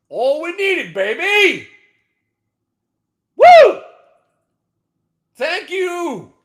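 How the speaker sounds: loud high celebration; triumphant whoop. Real, not acted. Trader celebrating his winning trade, triumphant.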